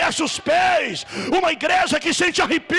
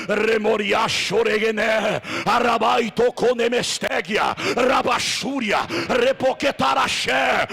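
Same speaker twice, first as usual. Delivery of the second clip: speaking in tongues; 3 semitones lower than usual. Real, not acted. Prays in tongues at worship.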